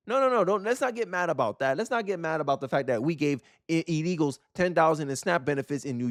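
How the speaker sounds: sarcastic mock warning not to get mad; sarcastic protest. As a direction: pretend to hush the topic, tongue in cheek.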